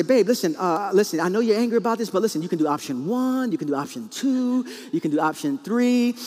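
lightly mocked problem-solving husband; computer mode. Husband listing options to angry wife, computer mode. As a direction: list the options like a program. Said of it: "they have the computer mode".

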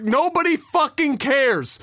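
high, drawn-out mock yell; acted-out scream, words stretched; retold scream. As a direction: imitate an angry man screaming from a balcony. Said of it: "he actually screams like".

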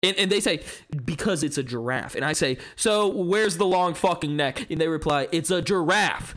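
theatrical skeptic's monologue with big rises; acted monologue. Auditioning friends, delivering a dramatic atheist monologue. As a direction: perform it like an audition speech. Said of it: "I forgot you were doing a monologue".

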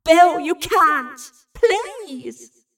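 high, loud, drawn-out begging; desperate cry. A narrator's reading. Evie begs Bill to stop, desperate cry. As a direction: beg at full voice, stretching the words. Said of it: "Evie had cried".

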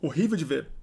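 hiccuping while talking; with hiccups. Real, not acted. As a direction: talk through hiccups. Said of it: "Nossa, tô com soluço".

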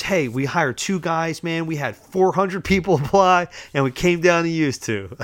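high, loud, hyped-up delivery; enthusiastic boss. Retold or imitated. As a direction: imitate an eager boss breaking great news. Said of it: "He's very enthusiastic".

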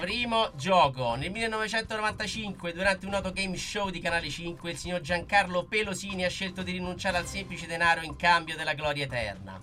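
showy game show host. Acted. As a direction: quiz host reading with flair. Host reads quiz question.

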